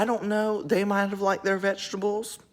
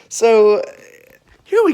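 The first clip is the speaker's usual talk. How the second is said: laughing; 5 semitones higher, 11 dB louder than usual. Real, not acted. Laughs before starting the story.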